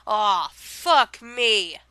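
slow, drawn-out dismay; dismayed groan. Shown as a demonstration. Showing the annoyed everyday sense, slow and dragged. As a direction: drag it out like something went wrong. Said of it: "like you're just saying".

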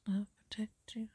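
soft whispered reassurance; whispering. Shown as a demonstration. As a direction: hush it gently, close to the ear. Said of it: "I'm so, a lot soft".

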